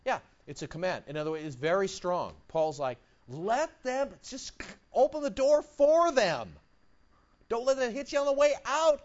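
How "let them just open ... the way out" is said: dismissive attitude. Retold or imitated. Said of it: "kind of attitude".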